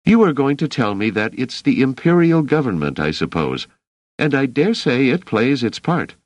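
a steady protector who won't be doubted; Dors's voice. Acted.

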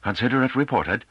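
high-pitched testy dismissal; irritable. A narrator's reading. Head returning to his work, irritably dismissing the underling. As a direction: brush off a subordinate with irritation. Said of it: "Gaudisavata said irritably".

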